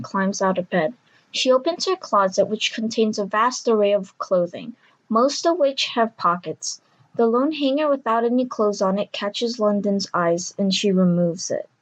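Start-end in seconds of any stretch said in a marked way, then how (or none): none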